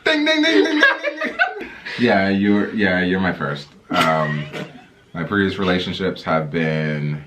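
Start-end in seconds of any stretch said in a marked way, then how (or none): none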